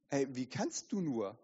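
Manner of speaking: soft, low "wie kannst du nur"; accusing inner voice. Acted. Inner voice shaming the sinner, soft low reproach. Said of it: "Diese Stimme setzt wieder an und sagt".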